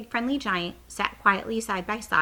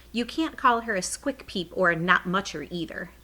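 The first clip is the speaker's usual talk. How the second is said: growing anger; 3 dB louder than usual. Acted. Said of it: "getting angrier and angrier".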